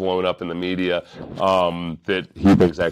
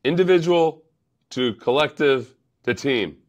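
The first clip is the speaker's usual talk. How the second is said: put-on hammy Russian accent, pitched up; 6 semitones higher than usual. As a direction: put on a bad Soviet-style Russian accent. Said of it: "how bad my Russian accent was".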